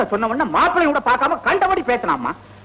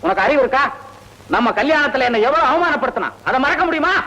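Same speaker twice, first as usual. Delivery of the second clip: angry scolding; 3 semitones higher than usual. Acted. Father angrily scolds daughter over the marriage letter. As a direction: scold her for daring to suggest it. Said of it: "ஏன்பா இப்படி கோவமா பேசுறீங்க".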